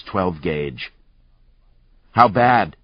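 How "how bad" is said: shouted. Acted. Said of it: "Lucas shouted at Static".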